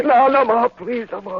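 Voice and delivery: high, loud panicked begging; screaming plea under the knife; desperate pleading. Acted. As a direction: cry out for it to stop. Patient begs as paraffin applied.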